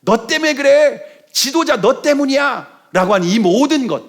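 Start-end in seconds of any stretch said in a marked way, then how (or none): 0.0-2.8 high-pitched mock accusation; acted blaming. Israelites turning on their leader in trouble, high accusing complaint. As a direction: throw the blame at the leader, voice pitched up. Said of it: "원망하고 다투고 불평하고".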